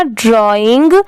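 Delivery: ड्राइंग said as "draw" plus "ing"; teaching pronunciation. Shown as a demonstration. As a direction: join ड्रॉ and इंग into ड्राइंग. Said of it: "दोनों मिला देंगे".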